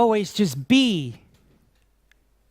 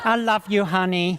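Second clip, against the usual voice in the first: mock tender endearment. Voicing husband to wife.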